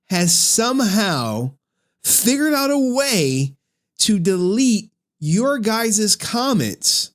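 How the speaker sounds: measured, emphatic update announcement; video intro presenter. Acted. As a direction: present the saga's latest news, stretching key phrases. Formal update intro after "All right, guys.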